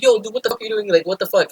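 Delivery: high-pitched incredulous reaction; alarmed disbelief. Retold or imitated. Fire watch confronting a kid with a knife, alarmed. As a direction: voice jumps up, shocked at what you see.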